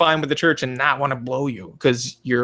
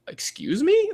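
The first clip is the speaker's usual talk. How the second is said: mock indignant wife; 12 semitones higher, 5 dB quieter, slower than usual. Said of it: "she would be like".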